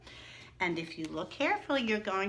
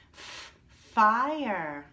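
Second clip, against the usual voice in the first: "Fire" called out louder, long fall; loud key word; 6 dB louder than usual. Shown as a demonstration. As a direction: lead the class with a loud "Fire". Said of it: "everyone say it with me".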